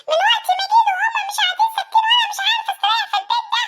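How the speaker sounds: fast, high-pitched rant; angry complaining. Acted. Uncle telling on the noisy children, angry complaint. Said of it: "يزعق فينا".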